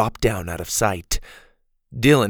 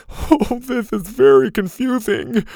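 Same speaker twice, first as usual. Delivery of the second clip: high-pitched bewildered; 12 semitones higher, 6 dB louder than usual. Acted. Mac after being rescued.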